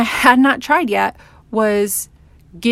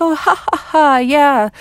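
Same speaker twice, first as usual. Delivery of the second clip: forced, higher-pitched mock laughter; fake laugh; 6 semitones higher, 3 dB louder than usual. Woman retelling a joke she played along with, fake laugh. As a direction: play along with a put-on ha-ha. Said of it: "I had to fake laugh".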